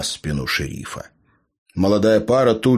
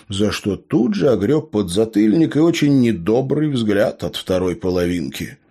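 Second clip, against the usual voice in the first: ordinary delivery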